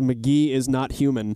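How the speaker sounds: usual speaking voice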